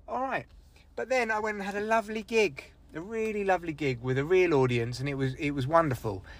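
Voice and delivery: soft, composed low voice; calming down. Real, not acted. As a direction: drop the fury and speak quietly. Calms himself after the outburst.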